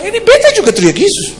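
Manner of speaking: high Ambonese boasting voice; hammed-up Ambonese claim, pitched high; imitated Ambonese. Ambonese brother refuses to be outdone, high dialect voice.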